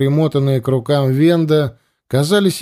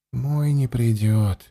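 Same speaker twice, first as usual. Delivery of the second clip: bitter; 2 semitones lower, 5 dB quieter, slower than usual. Acted. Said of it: "с горечью ответил Андема".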